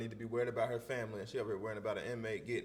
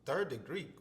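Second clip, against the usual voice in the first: caught off guard; 4 semitones higher, slower than usual. Real, not acted. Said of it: "that one caught me off guard".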